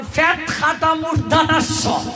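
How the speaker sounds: ফ্যাট খাতা মূর্ধনাস্য as people wrongly name it; mock everyday letter name; common mispronunciation. Shown as a demonstration. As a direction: say মূর্ধনাস্য with an a in the middle. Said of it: "আমরা কই".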